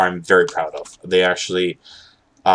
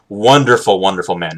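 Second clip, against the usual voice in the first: sarcastic praise, first word louder and punched; 3 dB louder than usual. Real, not acted. Streamer joking to chat about a man who hates him, sarcastic. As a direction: gush in mock admiration, then let it drop. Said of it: "I'm being sarcastic".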